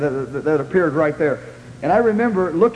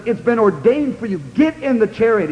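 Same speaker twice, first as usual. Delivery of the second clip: higher, emphatic command; retold harsh rebuke; 4 semitones higher than usual. The Lord rebuking the reluctant preacher, mildly harsh. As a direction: press each phrase as a stern order. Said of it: "He said it harshly to me again".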